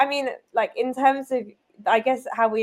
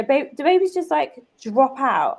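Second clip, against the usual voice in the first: put-on higher, slow innocent child question; daughter's voice; 5 semitones higher than usual. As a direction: ask it like a wide-eyed kid. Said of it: "she says to me".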